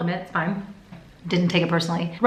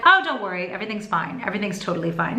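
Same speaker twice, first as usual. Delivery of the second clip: reassuring; faster than usual. Retold or imitated. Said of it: "really reassuring me".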